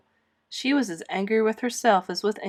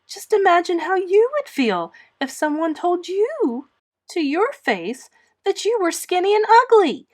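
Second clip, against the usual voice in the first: high, loud, tearful pleading; tearful plea; 10 semitones higher, 7 dB louder than usual. A narrator's reading. Anne pleading with Marilla, high and tearful. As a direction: beg her to understand, near tears. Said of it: "pleaded Anne tearfully".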